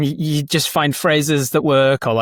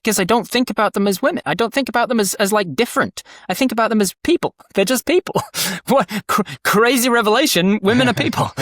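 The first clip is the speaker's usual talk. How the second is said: lightly raised feminine register; higher feminine voice; 8 semitones higher than usual. Shown as a demonstration. Voice actor answering how he plays women, in a higher voice. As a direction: pitch lifted well above usual, natural. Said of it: "a higher pitch to my".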